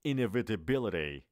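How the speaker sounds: Inevitability drawn out syllable by syllable. Shown as a demonstration. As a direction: take Inevitability slowly and clearly. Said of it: "آرومتر".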